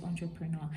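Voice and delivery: entrepreneur opening with a nasal "on", as in "ontrepreneur"; entrepreneur with an open "ahn" first syllable; correct French-style pronunciation. Shown as a demonstration. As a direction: say entrepreneur starting "ahn-truh-pruh". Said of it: "of course, which we know is".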